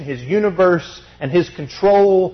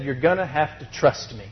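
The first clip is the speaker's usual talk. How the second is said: gentle God; 5 semitones lower, 9 dB quieter than usual. Retold or imitated. God voiced gently to Job.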